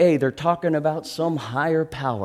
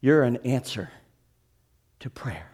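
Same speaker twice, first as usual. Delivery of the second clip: hushed confession; 5 dB quieter, faster than usual. Retold or imitated. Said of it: "he says".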